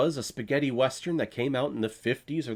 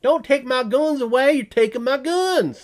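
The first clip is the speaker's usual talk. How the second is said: high, loud indignant ranting, building as it goes; sarcastic caricature of a gun nut, getting more worked up; mock gun-rights rant; 9 semitones higher, 5 dB louder than usual. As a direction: rant like an outraged gun owner defending his rights. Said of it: "Do you hear how stupid that sounds".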